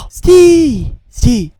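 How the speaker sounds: sharp loud yell to halt someone; shouting stop. Acted. A guard yelling at a fleeing man to stop. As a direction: bark the order to freeze. A fight breaks out.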